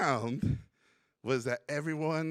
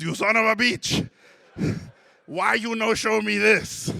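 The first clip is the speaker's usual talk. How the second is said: much louder, higher excited shout with a laugh; excited outburst; 7 semitones higher, 10 dB louder than usual. Retold or imitated. Hungarian teacher thrilled by the student's paintings, shouting. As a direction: burst out in delighted shock. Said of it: "he gets really excited".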